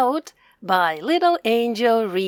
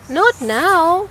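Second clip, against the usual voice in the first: birds; 8 semitones higher, 7 dB louder than usual. Acted. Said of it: "said the birds".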